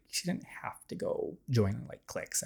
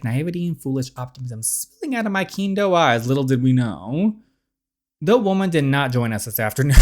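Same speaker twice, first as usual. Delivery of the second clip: Cerise voice. Acted. Cerise recalling her last date with Sir, lightly voiced. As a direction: read her memories like a diary, mildly wistful.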